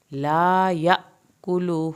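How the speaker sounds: stretched tajweed recitation; Quran recitation. Shown as a demonstration. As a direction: chant it out slowly with a full heavy ṭā. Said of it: "لا پورا پڑھنا ہے".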